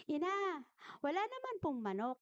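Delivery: a hint of a child answering mother; little boy's voice. Little boy tells his mother there is no chicken, lightly childlike. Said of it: "ganun yung boses ng bata, normal lang".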